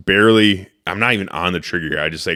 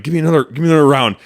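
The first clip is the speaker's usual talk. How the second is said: fast, high, louder rush for another round; urgent demand; 9 semitones higher, 6 dB louder, much faster than usual. Retold or imitated. Hunter urging his guide for a new round, hurried and high. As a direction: hurry it out, heart racing. Urgent request mid-hunt.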